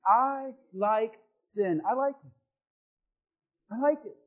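slow, deliberate confession. Shown as a demonstration. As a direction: lead the crowd in slow admission. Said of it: "Say it with me".

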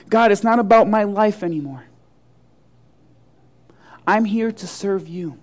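humble surrender. Acted. Willing believer offering a life of service to God, humbly surrendering. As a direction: offer yourself to God, settling into quiet.

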